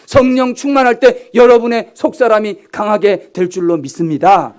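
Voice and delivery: loud, high impassioned exhortation; fervent preaching. Acted. Pastor exhorting the congregation to pray, fervent. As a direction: proclaim it with full force.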